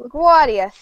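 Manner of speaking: New York accent. Shown as a demonstration. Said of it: "I'm stuck in a New York accent with that".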